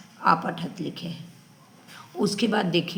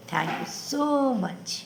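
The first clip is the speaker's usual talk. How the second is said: sweet sign-off; 6 semitones higher, 4 dB quieter, much slower than usual. Real, not acted. Sign-off to viewers.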